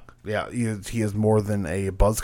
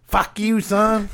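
a mock dad snapping back, pitched up; gruff dad; 11 semitones higher, slower than usual. Dad refusing his son's request, mock snappy voice. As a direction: brush the kid off as a cranky father. Dad answers son in bit.

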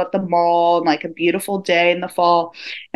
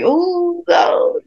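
high squealing mock outrage; teammates' mock protest; 10 semitones higher, slower than usual.

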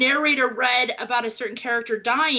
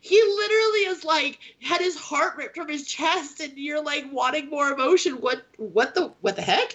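mock exasperation; 5 semitones higher than usual. Author protesting to her editor, mock exasperated. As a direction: play baffled outrage. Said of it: "And I'm just like".

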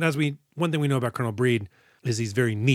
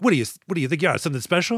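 barking coach; 5 semitones higher, much faster than usual. Retold or imitated. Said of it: "the scenario plays out this way could be like".

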